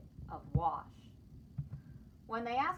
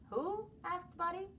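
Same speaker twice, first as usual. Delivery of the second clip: high, surprised question; Buddy doesn't catch it, asks high; puzzled who; 10 semitones higher than usual. Acted. Confused little rabbit to father, high and surprised.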